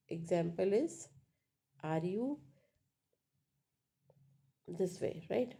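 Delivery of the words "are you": yes-no question climbing on YOU; rising tone. Shown as a demonstration. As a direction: lift the pitch through "you". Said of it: "Then rising tone".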